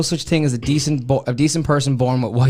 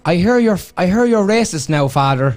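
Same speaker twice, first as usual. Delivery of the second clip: higher, louder Father Ted quote; quoting Father Ted; 4 semitones higher, 3 dB louder than usual. Retold or imitated. Reading a Father Ted comment to the hosts, a mock Irish parishioner. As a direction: deliver the Father Ted line, raised and louder. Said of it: "I've got a good one here".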